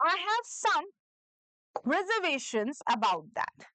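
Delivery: slow, every word clear; slow dictation. Shown as a demonstration. A teacher dictating slowly for students to repeat. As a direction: let each syllable of "reservations" land. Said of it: "उसको repeat करिए".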